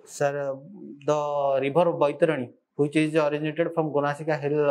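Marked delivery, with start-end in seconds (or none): none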